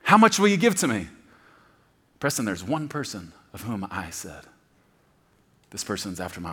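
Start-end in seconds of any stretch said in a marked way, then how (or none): 0.0-1.1 high, loud booming voice of God; God's booming offer. Acted. Preacher voicing God's challenge, booming and high. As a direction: call it out big, a challenge from heaven.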